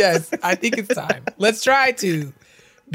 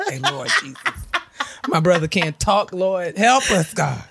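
mock prayer, laughing through it. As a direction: pray while cracking up. Imitating mom praying, laughing.

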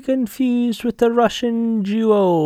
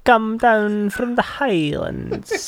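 put-on broad Scottish accent. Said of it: "A wee dram".

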